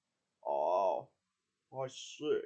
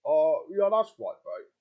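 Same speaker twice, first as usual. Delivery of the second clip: put-on Australian accent; 3 dB louder, slower than usual. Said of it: "I now speak Australian".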